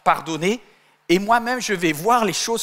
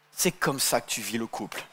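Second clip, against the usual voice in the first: laughing reproach; 7 semitones lower, 8 dB quieter than usual. Retold or imitated. Eve reproaching Adam.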